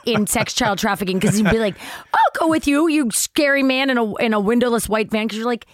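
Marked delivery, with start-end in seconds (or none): 2.1-5.3 innocent voice. Retold or imitated. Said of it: "makes it sound like the most innocent place ever".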